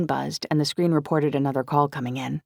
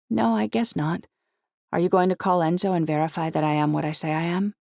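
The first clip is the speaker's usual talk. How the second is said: put-on higher, youthful girl's voice; teenage heroine, questioning; 3 semitones higher than usual. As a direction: voice the teenage girl, pitched up. Narrator voices young heroine.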